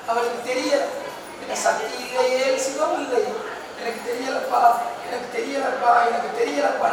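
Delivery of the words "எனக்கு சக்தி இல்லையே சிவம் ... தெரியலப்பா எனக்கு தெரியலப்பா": soft, helpless voice of weeping Rama; tearful, imitated. Rama pleads that he cannot tell, softly tearful. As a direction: act quietly overcome, with understated grief. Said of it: "அழுதவர் இலக்குமணன்ட்ட கொடுத்தார்".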